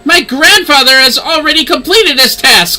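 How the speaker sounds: lightly voiced proud lady. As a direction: look down your nose at an old pupil. Lady scolds, professor answers.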